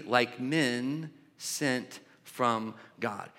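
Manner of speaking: slow, measured scripture reading. Acted. Pastor reading the verses slowly to the congregation. Reads scripture passage aloud.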